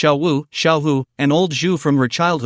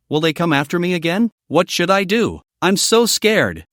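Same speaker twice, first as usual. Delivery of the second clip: understated scared plea, slowing down at the end; a touch of tearful fright; mild fearful sobbing; 3 semitones higher than usual. Acted. Survivor clinging to Lu Ming, mildly sobbing in fear. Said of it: "sobbing in fear".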